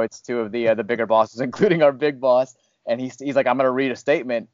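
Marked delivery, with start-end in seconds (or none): 3.5-4.5 flat, formal statement reading; monotone voice. Retold or imitated. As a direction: read it like an official notice. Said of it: "he starts off in this very monotone voice".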